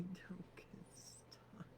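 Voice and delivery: slow whisper with a laugh. Real, not acted. Wishing the movers luck, slow whisper. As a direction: hush it slowly, half laughing.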